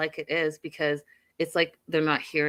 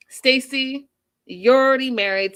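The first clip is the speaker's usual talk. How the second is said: louder, higher exasperated outburst; mock angry dad; 6 semitones higher, 7 dB louder than usual. Dad scolding his other daughter in a loud mock outburst. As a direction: throw it at her like a fed-up father.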